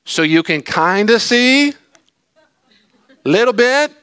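high, loud and slow, overpronounced; comic Jesus half shouting, slow and high; mock shouting Jesus. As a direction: talk to him like he's hard of hearing. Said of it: "I can hear Jesus look at the disciples and go".

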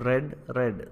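റെഡ് said with a short "e", like the colour red; past-tense pronunciation. Shown as a demonstration. Teacher drilling past-tense "read" for learners, റെഡ് with short "e". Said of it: "ആ same പ്രൊനൗൺസിയേഷനാണ്".

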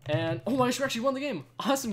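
high, loud thrilled disbelief; shrieking jackpot winner. Real, not acted. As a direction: shout it like you won big. Surprised victory in game.

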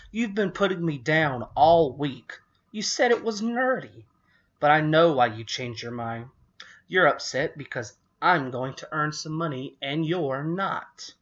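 loud, high accusation; angry. A narrator's reading. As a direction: accuse your sister loudly. Lindy accuses sister.

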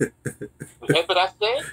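put-on slow, drawn-out South Carolina accent with a rising warning; mad mother's Southern accent. Mother scolding her child, in a slow Southern accent. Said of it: "Her South Carolinian accent come out strong".

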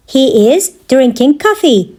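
measured, separated phrases; careful teaching repeat. Shown as a demonstration. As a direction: pause after "He is". Teacher repeats answer for learners.

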